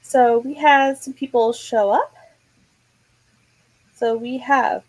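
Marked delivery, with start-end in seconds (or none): 3.9-4.8 words through a yawn. Real, not acted. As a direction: talk mid-yawn. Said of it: "now I'm yawning".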